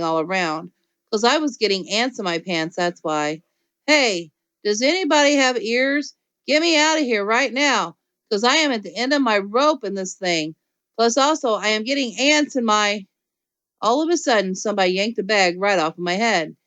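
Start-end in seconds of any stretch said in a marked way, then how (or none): 3.9-13.1 calling out for help. Acted. Junie B trapped, calling out.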